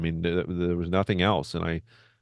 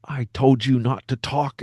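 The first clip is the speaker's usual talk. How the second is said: mildly fuming mock reprimand, slow and higher; 7 semitones higher, slower than usual. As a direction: imitate an irritated manager's slow, pointed scolding. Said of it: "I could just see he's fuming".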